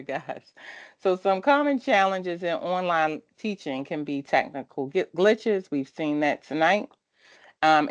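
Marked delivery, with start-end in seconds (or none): 1.0-5.7 careful retake around a retainer; wearing a retainer. Real, not acted. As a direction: retainer in, clearer second try. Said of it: "I have re-, uh, a retainer".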